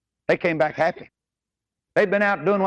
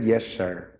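respectful yes sir; 8 semitones lower than usual. Retold or imitated. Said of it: "I like the way he said that".

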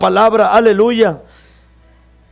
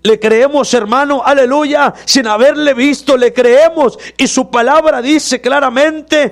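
higher, rising preacher's climax; fervent preaching; 5 semitones higher than usual. Acted. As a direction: lift the congregation with conviction. Sermon climax on faith.

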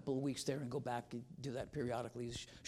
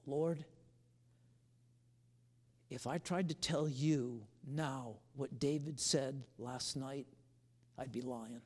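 sincere prayer; slower than usual. Retold or imitated. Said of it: "I just".

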